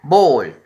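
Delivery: "Ball" with English dark "l"; model English word. Shown as a demonstration. Teacher modeling "Ball" for kids to repeat, loud and clear. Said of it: "Otra vez".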